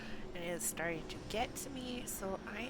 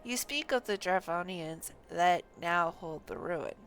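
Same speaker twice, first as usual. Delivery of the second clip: put-on louder, earnest voice for a young scholar; reading NPC lines; 4 semitones lower, 8 dB louder than usual. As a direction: read the quest line with full dramatic weight. Game NPC dialogue read aloud.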